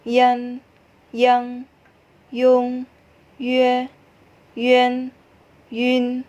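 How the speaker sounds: clear, careful Mandarin syllables for learners; Mandarin syllable drill. Shown as a demonstration. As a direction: model each syllable crisply, one by one. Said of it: "saat membaca huruf vokal campuran". (contoh lafal Mandarin yang jelas)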